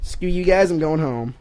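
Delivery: high, loud cartoon kid; whiny cartoon kid storming off; Cartman voice. Louder Cartman impression.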